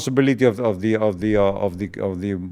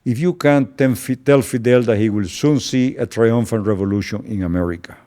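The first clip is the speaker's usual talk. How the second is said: mock-grand retold message, pitched up at the start; sarcastic. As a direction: deliver it as a pointed jibe. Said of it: "say in a sarcastic way".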